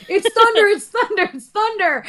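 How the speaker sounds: high, loud exasperated insistence; calm everyone down, exasperated; impersonating husband. Retold or imitated. Husband insisting to screaming wife it's only thunder. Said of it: "And he was like".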